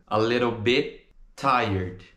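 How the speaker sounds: "bit" stopped silently before tired; unreleased T. Shown as a demonstration. Teacher demonstrates the silent last T in "bit", slowly. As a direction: say "A little bit tired", holding back bit's t. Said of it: "A gente não pronuncia o som do último T".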